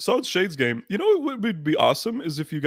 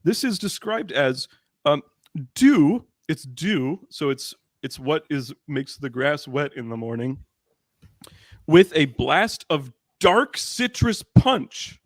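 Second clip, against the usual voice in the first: mock ad read; slower than usual. Host reading the soda label aloud, hammed-up ad voice. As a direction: read the label like a grand commercial. Reading product description grandly.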